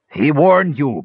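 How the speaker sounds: put-on narrated old fisherman's angry bellow. A narrator's reading. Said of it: "bellowed the old fisherman".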